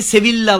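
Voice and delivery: সেভিল্লা with a full double l sound; English way. Shown as a demonstration. Guest imitates how English speakers say the city: সেভিল্লা. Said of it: "ইংরেজি ভাষীরা বলবে".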